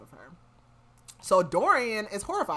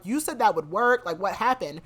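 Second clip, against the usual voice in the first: mildly pissed; 3 semitones higher, 6 dB louder than usual. Retold or imitated. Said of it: "Kaltain is pissed".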